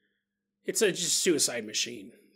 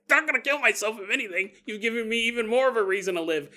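imitating an indignant veteran, pitched higher; mock furious; 5 semitones higher, faster than usual. Veteran snapping at the government, imitated high indignation. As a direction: huff it out like an offended woman. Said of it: "she was furious".

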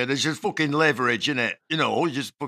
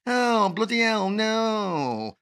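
high, drawn-out mock Yorkshire woman's wail; parody Yorkshire woman; 7 semitones higher, much slower than usual. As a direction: send up a Yorkshire woman's accent. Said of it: "it's parodied in such a way".

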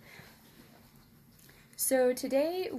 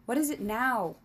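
a snappish, louder royal demand; irritated king; 4 dB louder than usual. Acted. King spinning round on his steward, irritated outburst. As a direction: bark it out, annoyed at the interruption.

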